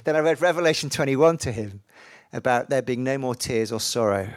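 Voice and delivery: acted delight. Preacher voicing a dying brother hearing of heaven, acted delight.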